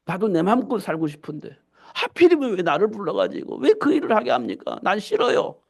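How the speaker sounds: mildly indignant refusal; complaining protest. Acted. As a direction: plead your case against being picked. Acts out complaining to God.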